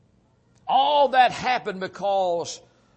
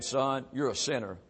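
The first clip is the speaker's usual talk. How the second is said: quiet voice of God; 6 semitones lower, 6 dB quieter than usual. Retold or imitated. God quietly tells the sinner, soft and gentle. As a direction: voice of God, lower and softer, a gentle verdict. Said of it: "God turned the light on and said".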